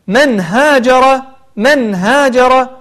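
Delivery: من هاجر very slow, nun clear before the ha; recited example. Shown as a demonstration. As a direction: chant من هاجر slowly.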